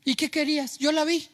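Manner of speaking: imitating a man justifying himself; mock excuse-making. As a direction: make excuses, pitch climbing to the end. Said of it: "No se justificó, no lo explicó". (excusa fingida, subiendo el tono)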